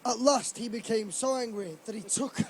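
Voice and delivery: fighting back giggles; reading through a laugh; words breaking into laughter; laughing while reading. Real, not acted. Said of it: "it's making me laugh".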